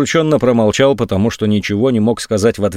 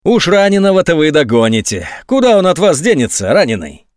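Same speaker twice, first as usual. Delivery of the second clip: sarcastic; 6 semitones higher than usual. A narrator's reading. General mocks the colonel's promise, sarcastic. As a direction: fake relief, all sarcasm. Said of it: "сменилась сарказмом".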